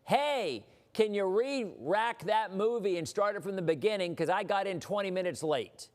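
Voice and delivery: high, pushy yell at the projectionist; imitating a rude moviegoer yelling; mock yell. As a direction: call up to the booth demanding a restart. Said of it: "yell up at the projector operator".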